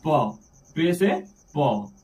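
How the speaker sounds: letter and name drawn out for pupils; slow teaching drill. Shown as a demonstration. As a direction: spell it out slowly like a teacher. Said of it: "teacher drilling letter names". (धीरे-धीरे अक्षर पढ़ाते हुए)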